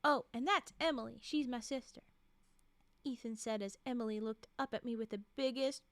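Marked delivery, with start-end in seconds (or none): 0.0-2.0 voicing him with a Southern twang; Southern accent. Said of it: "I'm going for it".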